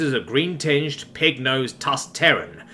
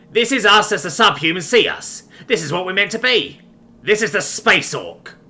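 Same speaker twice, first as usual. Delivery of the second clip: higher, loud, proud declamation; fervent raider captain; 6 semitones higher, 4 dB louder than usual. A narrator's reading. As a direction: proclaim it like a zealot captain, slowing to the end. Raider captain declares his ideology.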